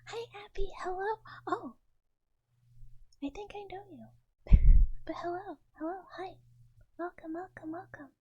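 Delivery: high-pitched, cutesy welcome; little-mouse greeting. Pretend. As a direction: greet them in a tiny mouse voice. Greets newcomer still in little-mouse voice.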